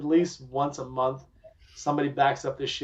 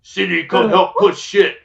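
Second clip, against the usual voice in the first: mock plea; 4 semitones higher, 10 dB louder, slower than usual. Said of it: "me so tired I couldn't".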